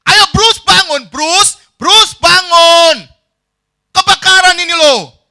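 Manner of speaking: high, full-volume yell, stretched words; insistent shouting. Acted. Friend refusing to give up waking him, shouting. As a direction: keep yelling until he wakes. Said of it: "Terus teriak-teriak".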